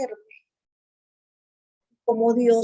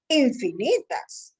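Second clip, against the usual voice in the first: drawn-out echo; 2 semitones higher, slower than usual. Retold or imitated. Child echoes father, drawn out.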